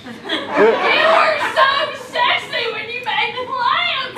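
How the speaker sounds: high, slow, drawn-out swooning; gushing admiration. Acted. Wife swoons over husband's plan, gushing. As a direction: gush over him, stretching it out.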